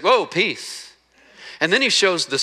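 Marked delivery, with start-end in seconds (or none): 0.0-0.9 higher, settling a startled room; whoa, easy, peace, as if calming a spooked crowd; Jesus calming freaked-out disciples. Retold or imitated. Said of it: "He's like".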